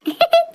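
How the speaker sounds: short high burst of laughter. Acted. Elder woman laughing after the mock quarrel, high laugh. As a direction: laugh it off brightly.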